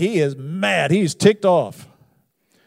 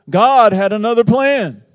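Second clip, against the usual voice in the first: emphatic slow proclamation; 6 semitones higher, 9 dB louder than usual. Real, not acted. Preacher's key turn, slowed.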